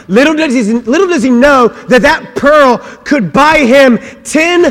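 loud, high-pitched storytelling rant; shouted, hammed-up sermon climax; full-force comic preaching. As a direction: belt out the parable with rising outrage. Preaches pig parable at full force.

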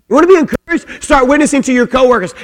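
loud, high, driving preacher's call; full-force preaching. Real, not acted. Preacher rallying the congregation, loud and high. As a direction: preach it out with fire.

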